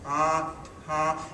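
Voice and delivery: a slow, separate "ta" with the tongue; tongued attack. Shown as a demonstration. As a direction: demonstrate "ta" as a tongued start. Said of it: "we tend to tongue and then blow".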